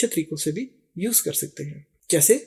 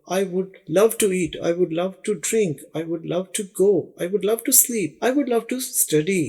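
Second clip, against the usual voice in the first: slow example drill; much slower than usual. Shown as a demonstration.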